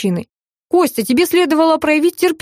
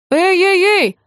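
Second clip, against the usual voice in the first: higher, sharp alarmed cry; exclaiming; 7 semitones higher, slower than usual. Acted. Stepson suddenly cries out, pointing at his stepfather. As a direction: call out to stop everyone. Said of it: "воскликнул Андрей".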